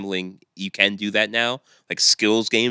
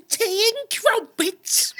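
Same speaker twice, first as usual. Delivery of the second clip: slow, high, whispered mock British accent; much slower than usual. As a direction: breathe it out like a hushed British toff. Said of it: "it's in a British accent".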